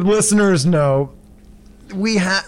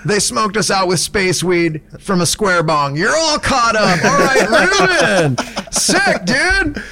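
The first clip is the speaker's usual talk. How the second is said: higher stoner-dude storytelling; Snake OG voice; 3 semitones higher, slower than usual. Acted. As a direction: tell it like a goofy baked host. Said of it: "doing the Snake O G voice".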